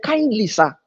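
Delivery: soft, slow polite refusal; measured, kindly no. Retold or imitated. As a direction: decline gently and respectfully. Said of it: "With kindness".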